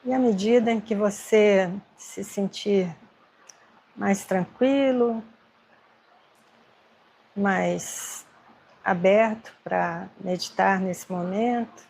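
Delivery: unhurried meditation guidance with long pauses; guided meditation. Acted. Meditation teacher helping agitated students breathe, guided meditation. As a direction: guide them gently, leaving space between phrases.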